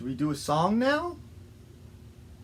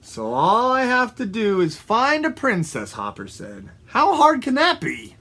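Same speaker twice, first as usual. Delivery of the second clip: higher-pitched, confident character voice; eager frog; 6 semitones higher than usual. Acted. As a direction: lightly play a keen little frog hero.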